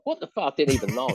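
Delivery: mock shock. His own shocked reaction retold.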